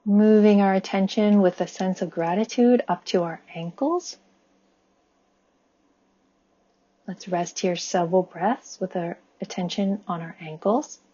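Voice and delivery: calm body-scan guidance, long pauses between phrases; guided meditation. Acted. Guiding listeners' attention up the body with gratitude, calm meditation voice. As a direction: lead them gently and evenly, leaving room to breathe.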